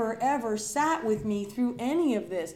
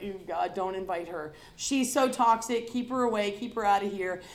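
disgusted gossip; 3 semitones lower than usual. Retold or imitated. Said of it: "people that's like".

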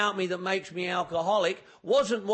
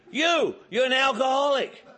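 insistent accusation; 4 semitones higher, 3 dB louder than usual. Retold or imitated. Man keeps insisting.

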